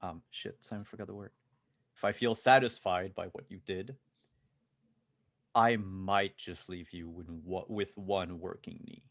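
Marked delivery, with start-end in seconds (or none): 2.0-9.0 deliberate threat, firm start settling down; calm menace. Acted. Gunman warning a cowed executive about his knees, calm menace. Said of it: "the man stays calm".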